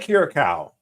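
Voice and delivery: Kira Cow ending like the animal cow; pronunciation Kira Cow. Shown as a demonstration. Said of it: "Kira Cow sounds better".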